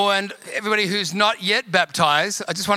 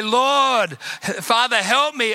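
higher, mildly pleading mock prayer; crying out in prayer; 4 semitones higher, slower than usual. Preacher retelling his own prayer in trouble, crying out. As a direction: act out a plea to God. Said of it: "I had to cry out to the Lord".

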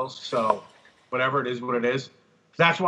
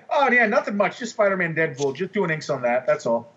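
casual understatement. Retold or imitated. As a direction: toss it off like it's nothing. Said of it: "that's exactly how he, he's looking at my portfolio. Head down".

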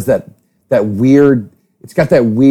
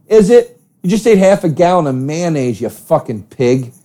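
scornful jab; 3 semitones higher than usual. Real, not acted. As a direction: scold the mayonnaise eater. Scolding the tuna eater.

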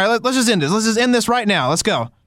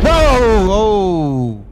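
startled whoa; 4 dB louder than usual. Real, not acted. Startled by the explosion.

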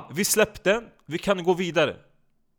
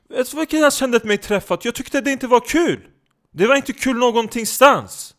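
indignant; 7 semitones higher, 7 dB louder than usual. Acted. Indignant rant about offensive jokes.

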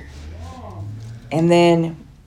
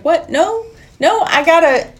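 pleading Nancy; 7 semitones higher than usual. Retold or imitated. Nancy voiced in retold scene.

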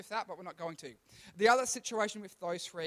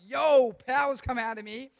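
Jesus voice; 4 semitones higher, 9 dB louder than usual. Retold or imitated. Jesus voiced in retold story.

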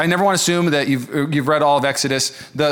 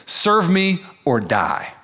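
menacing god; 2 semitones higher, much slower than usual. Acted. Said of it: "that say this".

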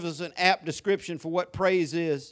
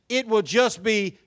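normal talking voice

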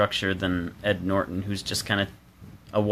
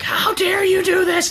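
much higher, louder affected outrage; mock outraged heroine; 4 dB louder than usual. Love interest scolding the reckless taxi driver: higher, louder mock outrage. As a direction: shriek it like an offended damsel. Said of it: "And she's like".

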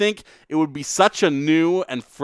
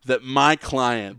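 honeyed southern lawyer drawl; much slower than usual. Pretend. Courtroom lawyer speech.

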